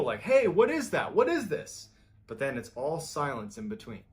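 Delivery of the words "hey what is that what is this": loud, high-pitched alarmed questions; retold yelling. Michael reacting to the strange voice on the phone, retold yelling. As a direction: imitate someone yelling in confusion. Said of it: "Michael is yelling in the beginning".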